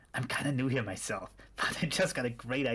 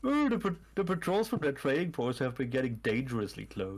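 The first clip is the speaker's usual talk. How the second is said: cultist M voice; 2 semitones lower than usual. Acted. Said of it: "That's your cultist M voice?".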